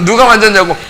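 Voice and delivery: sharp mock yell of the question; shouted question. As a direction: yell it out, hitting 누가. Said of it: "소리 한번 팍 질러가지고".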